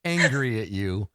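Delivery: gently patronising parent voice; soothing disappointed parent; kind parental angel. Pretend. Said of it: "kind and parental".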